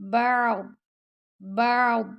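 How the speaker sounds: بعض ending in a silent stop, no kasra. Shown as a demonstration. Teacher showing the stop at the pause sign. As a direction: cut off after the daad. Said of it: "اس کو آپ نے نہیں پڑھنا".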